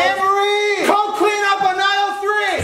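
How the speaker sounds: page her like a store clerk; store announcer call. Pretend. Mock store intercom call.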